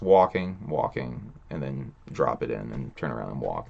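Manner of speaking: low, soft drone; a mumbled, drooping imitation of an endless trek; mock trudging. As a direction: drone the endless walking, sinking away. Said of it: "Kevin Smith says".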